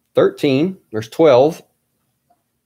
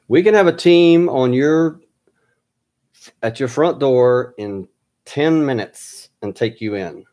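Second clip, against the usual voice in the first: louder, higher retold threat; convincing agent; 4 semitones higher, 3 dB louder than usual. Caller threatens the researcher with a team, retold forcefully. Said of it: "he was very convincing".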